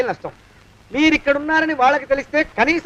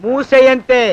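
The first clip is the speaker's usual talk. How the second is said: slow, louder command to shut up; slow snapped order; 5 dB louder than usual. Acted. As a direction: shut him down deliberately. Servant silencing his master.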